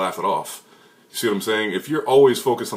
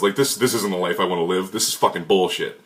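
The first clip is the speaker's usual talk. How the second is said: ordinary delivery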